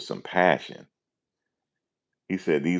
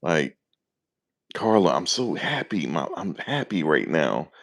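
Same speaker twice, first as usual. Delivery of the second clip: mock excitement; 2 semitones higher than usual. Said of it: "I can't do that".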